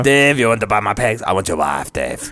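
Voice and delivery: creepy put-on voice. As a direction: make it sinister and slow.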